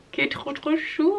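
high, soft gushing coo; cutesy cooing. Real, not acted. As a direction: coo over something adorably cute. Gushing over cute baby pyjamas.

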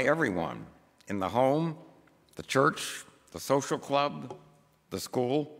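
measured, emphatic pulpit reading; formal read-aloud. Acted. Preacher reads a book passage to the congregation, measured formal reading. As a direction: read it out deliberately, phrase by phrase.

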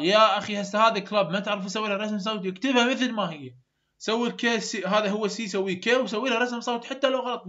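teacher loudly urging students to just try; urgent exhortation. Real, not acted. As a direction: push the students hard to try. Teacher urges students to practise.

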